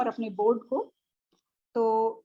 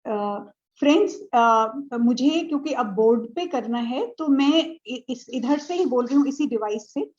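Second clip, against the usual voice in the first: projecting a bit louder to the class; 5 dB louder than usual. Real, not acted. Teacher to online students about the board, louder and projected. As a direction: speak up so the device picks it up. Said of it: "मैं जोर से बोलूँगी".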